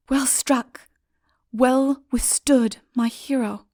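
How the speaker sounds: a light lady's whisper of praise. A narrator's reading. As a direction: whisper it admiringly as the lady. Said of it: "said the lady".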